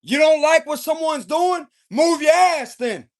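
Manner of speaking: irritated telling-off with punched key words. Acted. Tarot reader voicing the King of Swords' warning, irritated. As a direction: lay down the law, fed up. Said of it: "but he's irritated".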